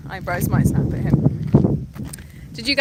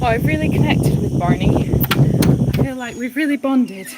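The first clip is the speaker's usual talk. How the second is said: gushing volunteer; 6 dB louder than usual. Retold or imitated. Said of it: "volunteers will say".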